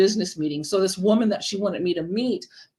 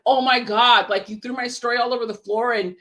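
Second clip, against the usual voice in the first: indignant outburst; 3 semitones higher than usual. Retold or imitated.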